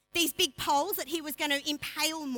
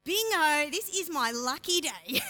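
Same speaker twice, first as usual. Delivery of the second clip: gleeful ego; 3 dB louder than usual. Retold or imitated. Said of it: "he's like".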